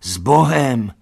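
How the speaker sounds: loud farewell call. A narrator's reading. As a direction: call goodbye after the cart. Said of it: "volali všichni".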